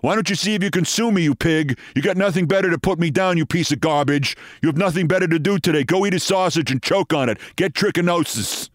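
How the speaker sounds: hammed-up radio ranter, rattling off insults; Michael Savage rant. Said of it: "Continuing the quote".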